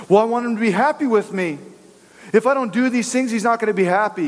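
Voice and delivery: anxious believer. Retold or imitated. Voicing a worried churchgoer.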